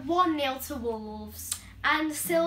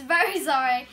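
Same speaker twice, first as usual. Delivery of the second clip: giggling through hiccups; laughing apology; 5 dB louder than usual. Real, not acted. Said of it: "I've got the hiccups".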